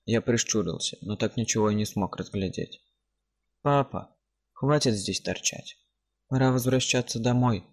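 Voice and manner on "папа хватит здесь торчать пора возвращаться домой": a hint of a little kid calling; child's voice. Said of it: "раздался детский голос".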